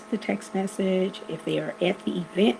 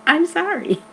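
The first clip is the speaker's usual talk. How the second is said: laughing apology; 9 semitones higher, 6 dB louder than usual. Shown as a demonstration. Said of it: "the best way to say it is to say".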